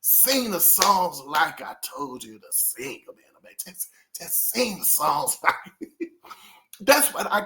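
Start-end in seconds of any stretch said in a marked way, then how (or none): 0.0-5.9 imitating a singer. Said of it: "when you think about the duo when he said".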